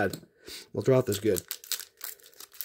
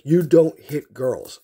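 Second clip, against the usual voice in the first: stern dad; 2 semitones higher, 5 dB louder, much slower than usual. Retold or imitated. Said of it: "And he's like".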